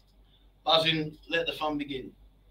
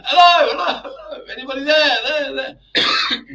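tin can sound; 8 semitones higher, 8 dB louder, slower than usual. Real, not acted. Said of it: "Sounds like you're in a tin can".

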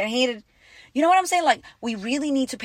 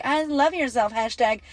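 mocking quote; 3 semitones higher than usual. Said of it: "not the fucking Instagram quote".

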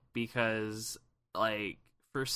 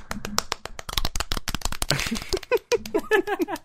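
helicopter; 4 dB louder than usual. Retold or imitated. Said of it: "Jesse just goes".

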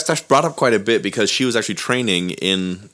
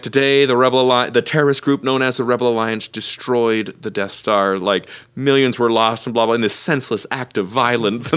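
mock news anchor. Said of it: "parodies of".

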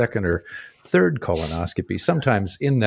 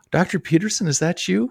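startled nurse's recognition; 8 semitones higher than usual. Retold or imitated. Anesthetic nurse spotting her former teacher on the table, surprised. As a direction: imitate a nurse's surprised double-take, pitched up. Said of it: "looks up and she goes".

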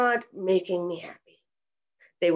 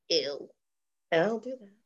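dismissive; 4 dB quieter than usual. Retold or imitated. Mocking a dismissive critic.

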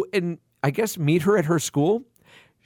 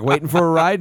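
put-on Australian accent; 3 semitones lower, 3 dB louder than usual. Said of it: "I'm doing the fucking Australian accent".

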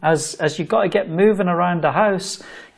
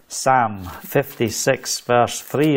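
Psalm fifty-six, verse three in his own Scottish accent, L silent in Psalm; slow Scottish reading of the verse number; 4 semitones lower, much slower than usual. Real, not acted. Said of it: "as we say in Scotland".

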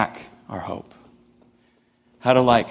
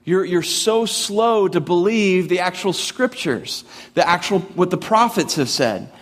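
stern Jesus rebuke; 7 semitones higher than usual. Retold or imitated. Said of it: "It's like".

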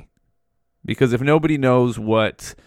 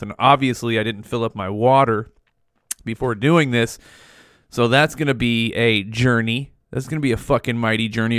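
talking with cotton mouth; words sticking on a dry mouth. Real, not acted. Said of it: "that good old cotton mouth".

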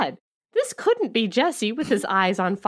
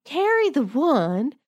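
mock confused; 5 semitones higher than usual. Mock heroine doing maths.

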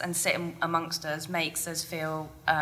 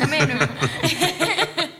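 high, loud, bright welcome; cheery boss greeting; 10 semitones higher, 7 dB louder than usual. Retold or imitated. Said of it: "Do I really sound like that?".

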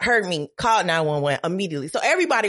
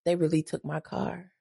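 dazed; 3 semitones lower, 7 dB quieter than usual. Retold or imitated. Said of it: "I was in a daze".

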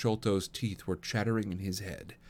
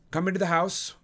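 loud, higher, decisive order; crisp and firm; 9 semitones higher, 5 dB louder than usual. A narrator's reading. Holmes orders the frightened Sholto indoors, crisp firm voice. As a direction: take charge in a crisp voice. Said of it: "said Holmes in his crisp, firm way".

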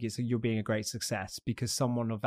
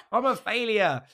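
mock despair; 9 semitones higher, 3 dB louder, slower than usual. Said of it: "'cause I'm like".

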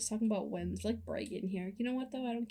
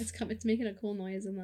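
chewing while talking; mouth full. Real, not acted. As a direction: talk through a mouthful of cookie. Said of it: "Can you stop chewing on that Biscoff?".

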